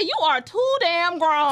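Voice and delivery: loud mock scolding; half-shouted self-scold; retold scolding. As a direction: scold yourself like a mother. Scolding herself in retold quote.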